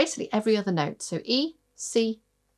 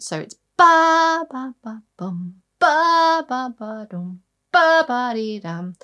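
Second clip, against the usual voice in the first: loud, high ba on each thumb note; accented rhythm; 4 semitones higher, 6 dB louder, slower than usual. Shown as a demonstration. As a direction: punch every accented syllable. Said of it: "The accent is on the thumb note".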